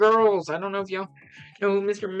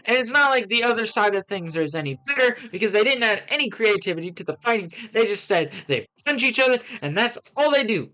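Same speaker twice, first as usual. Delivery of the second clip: exasperated, animated review read-out; lively, indignant rant with jumping pitch; 3 semitones higher than usual. Acted. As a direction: rattle off a worked-up complaint. Reads out own ranting review.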